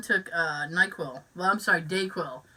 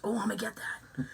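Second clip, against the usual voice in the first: laughing; 10 dB quieter than usual. Retold or imitated. Retold contestant reply, laughing.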